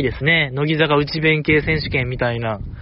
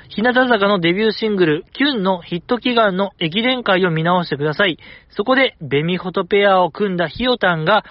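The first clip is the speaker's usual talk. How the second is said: listener mail read-out; 3 semitones higher than usual. Acted. Host reads a teasing listener letter, read-aloud style. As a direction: read the letter out in a raised presenter pitch.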